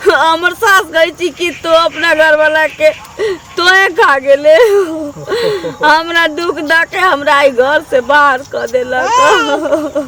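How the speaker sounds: recounting wrongs through tears; weeping, wronged widow; tearful complaint. Acted. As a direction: let the grievance end in a drawn-out sob. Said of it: "तुम क्यों रो रही हो?".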